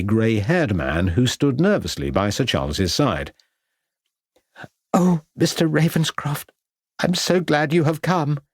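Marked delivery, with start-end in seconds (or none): 4.9-8.4 raised, higher lady's voice calling from another room; anxious wife calling to the detective from a nearby room, voice lifted high; woman calling out. A narrator's reading. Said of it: "called out a woman's voice".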